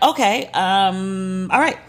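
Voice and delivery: confused. Retold or imitated. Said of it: "I'm confused more than anything".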